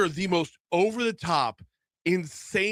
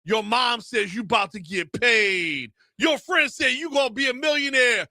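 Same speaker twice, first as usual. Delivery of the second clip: dramatic ad narrator; 3 semitones higher than usual. Retold or imitated. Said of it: "there's another one".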